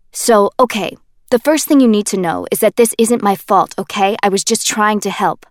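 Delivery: put-on loud, defensive young man; Kenji, defensive. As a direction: plead your innocence, a bit too loud. Kenji defending himself loudly.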